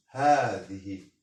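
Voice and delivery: هذه with a drawn-out "haa"; pronunciation demo. Shown as a demonstration. Teacher repeats the pronunciation for students, هذه with long first vowel. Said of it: "Se prononce".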